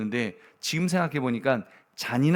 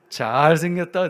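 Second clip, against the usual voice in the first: drawn-out, louder "잘생겼다" like a proud parent; slow doting praise; 3 semitones higher, 6 dB louder, slower than usual. Retold or imitated. Father praising his son each morning, slow and fond. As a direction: stretch "잘생겼다" slowly with fond pride. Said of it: "제가 그래요".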